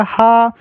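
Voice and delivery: हा said as a clear breathy ha; final haa sound. Shown as a demonstration. Teacher showing the visarga after आ. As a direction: sound हा with a long a. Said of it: "हा का उच्चारण करना है last में".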